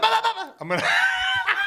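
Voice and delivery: high laughing burst of mock punch noises; laughing sound effect. Boxer trying out his own ring sound effects, laughing shout. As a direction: blurt out cartoon punch noises through a laugh. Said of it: "You're gonna say it?".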